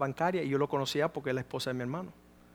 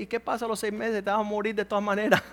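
laughing comeback; 5 semitones higher, faster than usual. Retold or imitated. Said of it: "Yo dije".

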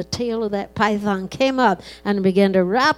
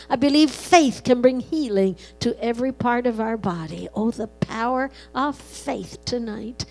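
prayer. Acted. Pastor praying for the congregation in earnest prayer. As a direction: pray over the people with rising conviction.

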